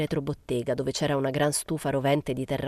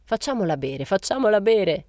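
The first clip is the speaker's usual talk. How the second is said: building to a higher, louder cry; rising rowdy call; 5 semitones higher, 5 dB louder than usual. A narrator's reading. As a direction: repeat it, pushing up into a mild shout. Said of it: "gridò Febo".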